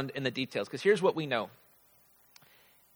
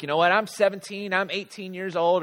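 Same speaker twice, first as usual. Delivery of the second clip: put-on exasperated teenager; 5 semitones higher, 4 dB louder than usual. Voicing exasperated teens about mom.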